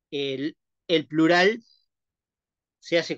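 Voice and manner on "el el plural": "el plural" drawn out very slowly; slow example. Shown as a demonstration. Teacher slowly sounding out an example word for the class. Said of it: "yo digo, bueno".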